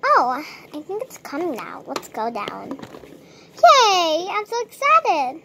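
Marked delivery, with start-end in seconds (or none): 3.6-5.4 excited. Acted. Sister excited about healing.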